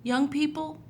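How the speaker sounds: put-on gentle, lively storybook reading for kids; reading to children. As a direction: read it like a picture book to little ones. Reads Bible story to children.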